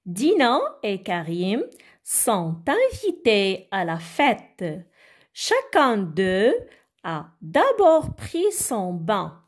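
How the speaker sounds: careful model reading, phrase by phrase; slow read-aloud. Shown as a demonstration. Teacher reads while children follow along, slow read-aloud. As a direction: read the text out slowly, pausing after each phrase. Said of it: "suivez avec moi, je vais lire".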